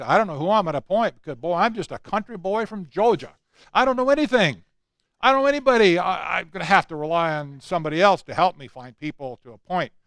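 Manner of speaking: Southern drawl. Retold or imitated. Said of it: "you can hear him talking in the Southern drawl".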